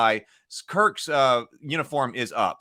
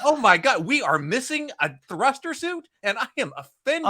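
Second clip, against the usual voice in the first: higher, hammed-up alarmed officer; hammy Chekhov impression; 10 semitones higher than usual. Podcaster mimicking Chekhov reporting trouble, high mock-alarmed. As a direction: squeak out the alarm with mock offence. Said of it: "he always delivers lines like that".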